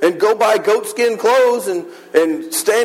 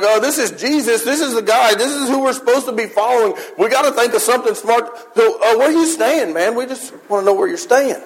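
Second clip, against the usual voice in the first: nervous disciples; 3 semitones higher than usual. Retold or imitated. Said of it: "they're, like, panicked".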